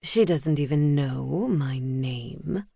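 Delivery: an owl offended at the wrong name; lightly voiced owl, a touch of outrage; outraged owl. A narrator's reading. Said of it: "Sedgwick sounded outraged by the slight".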